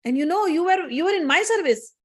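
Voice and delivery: lightly voiced indignant goddess; stern rebuke. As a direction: pronounce judgement, mildly outraged. Goddess rebukes and banishes her servant.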